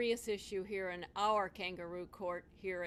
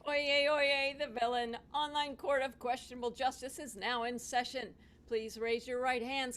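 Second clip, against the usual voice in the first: town crier. Acted. Bailiff opens mock court session.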